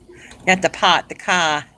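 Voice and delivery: put-on playful Boston accent with dropped R's. Joking with viewers about pronouncing R's, mock Boston accent. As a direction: drop the R in car, mock-Boston. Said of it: "You try to pronounce your R".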